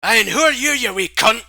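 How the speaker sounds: put-on high, very loud accented outburst; belligerent challenge. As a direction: confront the intruder aggressively in character. Possessing character confronts the intruder.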